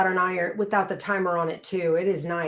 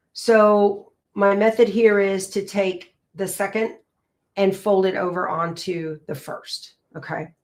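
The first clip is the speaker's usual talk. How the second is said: pins in mouth. Real, not acted. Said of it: "Yes, I put a pin in my mouth".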